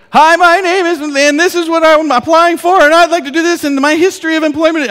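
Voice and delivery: high loud monotone shout, like all-caps text; yelling. Acted. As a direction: shout every word on one high pitch. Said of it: "Why are you yelling in your email?".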